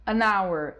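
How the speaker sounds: "An hour" run together as one word, the n sliding into hour; an linked to hour. Shown as a demonstration. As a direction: join "an" to "hour", no break. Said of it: "tenta falar ele junto com a palavra que vem depois". ("An hour" falado tudo junto, o n ligado ao hour)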